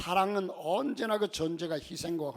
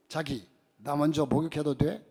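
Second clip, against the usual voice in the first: Seoul wife; 4 semitones lower than usual. Retold or imitated. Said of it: "서울 부부의 아내가".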